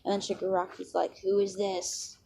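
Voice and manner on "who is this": softly voiced, half-hearted villain imitation; bad Shigaraki impression. Shigaraki asks who the newcomer is, bad soft impression. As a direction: lightly put on a villain's voice, quietly. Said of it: "It's a really bad Shigaraki impression".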